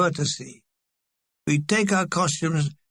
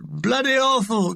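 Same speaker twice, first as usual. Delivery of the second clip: mock shout; 4 semitones higher than usual. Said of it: "A shout".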